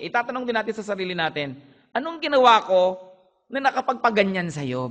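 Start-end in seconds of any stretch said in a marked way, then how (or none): 1.9-4.9 pleading self-question. Retold or imitated. Self-questioning after conflict.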